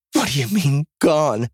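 high, urgent question; alarmed demand. A narrator's reading. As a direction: demand to know, heart lurching. Alarmed reaction to bad news.

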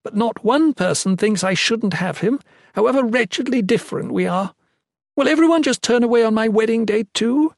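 high, heated tirade; acted yelling rage. A narrator's reading. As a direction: hurl the outrage at him. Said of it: "as she yelled at him".

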